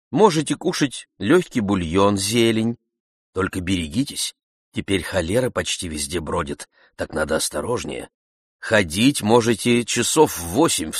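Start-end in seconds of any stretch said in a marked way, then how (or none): none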